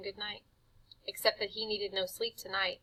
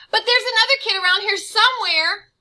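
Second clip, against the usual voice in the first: high, breathless conspiratorial whisper; boy whispering to the vampire; scared whisper; 13 semitones higher, 15 dB louder than usual. Acted. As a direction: whisper the betrayal urgently. Boy betraying friend.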